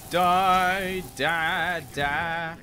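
loud chant of die; battle yell. Real, not acted. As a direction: hammer each word out. Attacking enemy.

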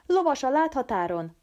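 a lookout's warning shout; guards shouting. Acted. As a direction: raise the alarm from a distance. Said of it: "az őrök kiáltása".

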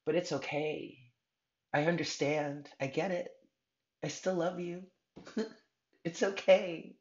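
God's reassurance. Acted. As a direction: comfort them gently, voice lifted. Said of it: "God has been saying this to you".

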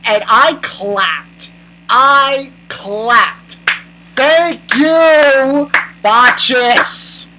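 slow, drawn-out emphatic gratitude; emphatic thanks. Real, not acted. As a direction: land every word hard, stretched out. Emphatic mock-applauding thanks.

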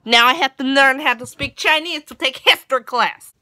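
loud ranting in a mock Russian accent. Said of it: "Russian Gracie in and have her rant".

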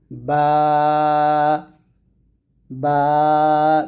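বা with both lips pressed, held; Arabic letter demo. Shown as a demonstration. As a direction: press the lips and sound বা clearly. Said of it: "দুই ঠোঁট মিল করে".

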